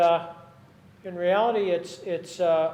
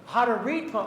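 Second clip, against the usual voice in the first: professor; 5 semitones higher, 8 dB louder than usual. Pretend. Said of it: "oh, like a professor".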